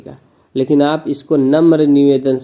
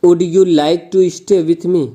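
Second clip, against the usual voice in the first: polite request; 3 semitones higher, 3 dB louder, much slower than usual. Shown as a demonstration. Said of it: "इसी तरह".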